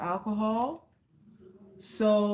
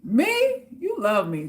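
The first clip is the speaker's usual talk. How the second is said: mock innocent surprise; 4 semitones higher, 4 dB louder, slower than usual. Feigning shock at being accused.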